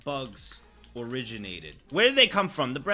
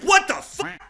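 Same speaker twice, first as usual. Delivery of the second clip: shocked; 13 semitones higher, 8 dB louder, slower than usual. Retold or imitated. Shocked reaction to bug.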